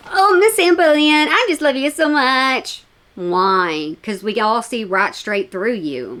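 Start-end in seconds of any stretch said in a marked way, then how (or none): 0.1-2.8 put-on gushing, adoring voice. Mocking a viewer's message read aloud: mock gushing fan. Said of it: "Gushing over you".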